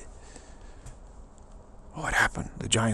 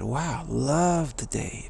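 very slow, drawn out and content; savoring it; 2 semitones higher, much slower than usual. Retold or imitated. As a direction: let each word linger with delight. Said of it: "So I just said".

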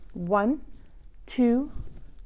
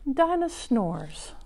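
whispering; 6 dB quieter, slower than usual. Pretend. Title whispered.

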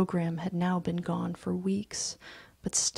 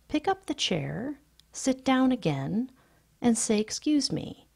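higher mother calling after her son; 5 semitones higher than usual. Acted. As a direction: call him back to his manners. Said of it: "when Mama called".

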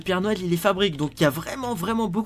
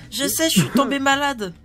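a touch higher, like an elf; a lightly raised elf voice; 5 semitones higher, 3 dB louder than usual. Acted. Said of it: "ta voix, elle est un petit peu étrange".

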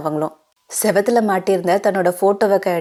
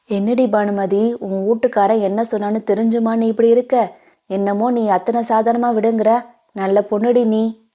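put-on old grandmother; 3 semitones higher than usual. Grandmother scolds Banumathi.

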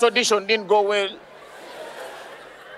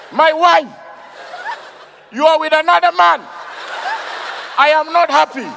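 badly acted anger; 5 semitones higher than usual. Auditioner confronting imagined cheating wife, high stilted mock anger. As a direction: declaim the hurt as overdone mock anger. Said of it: "we want you to imagine".

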